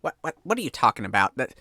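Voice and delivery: flustered fisherman. Acted. GM voicing fisherman defending sacrifice.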